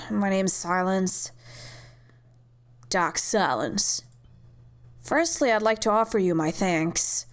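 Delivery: put-on light British accent for the doctor; polite doctor in a British accent; a hint of British accent. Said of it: "I don't know why I gave her British".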